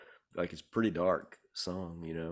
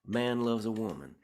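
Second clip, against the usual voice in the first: "A man loves a woman" in one higher, connected run; different rhythmic feel; 4 semitones higher than usual. Retold or imitated. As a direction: run the words together at a higher pitch, no gaps. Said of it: "with different kinds of feels".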